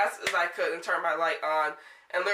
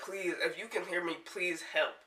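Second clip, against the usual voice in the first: emotional; 7 dB quieter than usual. Real, not acted. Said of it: "I'm getting emotional".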